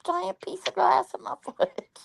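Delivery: quoting herself, high and soft; high pained complaint. Retold or imitated. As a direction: squeak out the complaint. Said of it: "I said".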